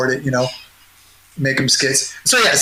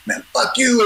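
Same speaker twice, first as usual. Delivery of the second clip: mock angry; 9 semitones higher than usual. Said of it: "all pissed off at me".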